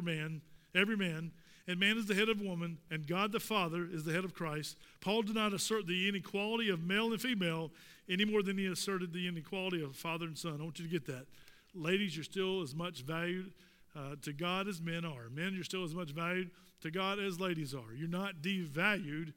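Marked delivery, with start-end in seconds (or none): none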